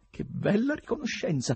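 high-pitched, bitter irony; hurt inner remark with mild bitterness; bitter thought. A narrator's reading. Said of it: "pensò con amarezza". (con amarezza, tono acuto)

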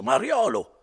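put-on drunken indignant cry; furious exclamation. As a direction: bellow the insult. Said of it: "Renzo continuava più forte".

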